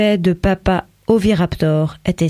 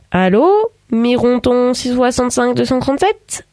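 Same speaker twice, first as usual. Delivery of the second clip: friendly tone; 5 semitones higher than usual. A narrator's reading. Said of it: "d'un ton aimable".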